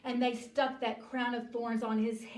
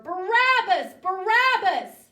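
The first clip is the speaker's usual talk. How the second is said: high, very loud shout; insistent crowd yell; 9 semitones higher, 16 dB louder than usual. Acted. The crowd answers Pilate's protest, yelling. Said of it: "And they yelled louder".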